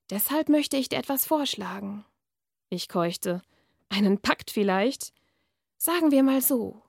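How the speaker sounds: measured reading-aloud voice; dark fairy-tale narration; story reading. A narrator's reading. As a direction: read the passage like an author at a reading. Author reads her novel aloud.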